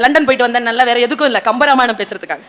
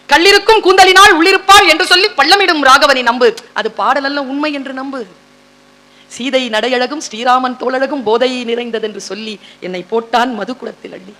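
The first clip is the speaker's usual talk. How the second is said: poem recitation. Acted.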